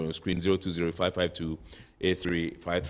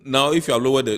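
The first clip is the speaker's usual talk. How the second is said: to someone hard of hearing; 6 semitones higher, 9 dB louder than usual. Real, not acted. Host speaking to caller.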